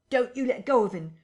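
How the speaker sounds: high, loud rough shout; gruff navvy's yell; crying out. A narrator's reading. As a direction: warn the doctor to hold on. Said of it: "cried the big navvy".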